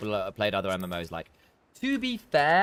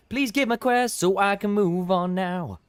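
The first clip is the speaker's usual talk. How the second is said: mock pleading; 8 semitones higher, 4 dB louder, slower than usual. Real, not acted. Begging NPC for quest.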